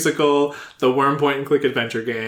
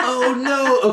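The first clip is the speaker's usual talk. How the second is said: laughing squeal; 12 semitones higher, 3 dB louder than usual. Real, not acted. Laughing at the idea.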